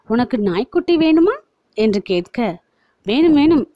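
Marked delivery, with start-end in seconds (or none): 0.1-1.3 higher, coaxing offer; smiling coax. A narrator's reading. Praveen bribing Varnika with a puppy, coaxing smile. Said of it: "சிரித்தபடி". 3.1-3.6 higher, louder eager yes; like a child wanting a puppy; eager excitement. A narrator's reading. Varnika eagerly begging for the puppy, excited. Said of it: "கண்களை விரித்தவளிடம்".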